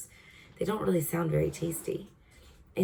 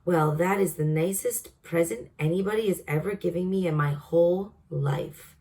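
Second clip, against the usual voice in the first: delighted. Acted. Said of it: "cried the B F G".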